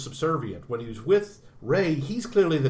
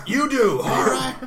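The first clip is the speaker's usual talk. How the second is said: excited shout; 11 semitones higher, 9 dB louder than usual. Real, not acted. Excited laughing reply.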